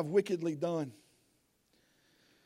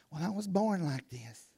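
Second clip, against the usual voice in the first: whiny excuse; 3 semitones lower, 9 dB quieter than usual. Retold or imitated. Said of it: "We can't use that as an excuse".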